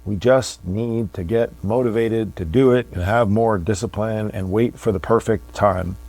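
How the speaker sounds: put-on sarcastic voice; made-up sarcastic voice, mimicking an excuse; fake sarcastic. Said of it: "could hear my fake sarcastic voice".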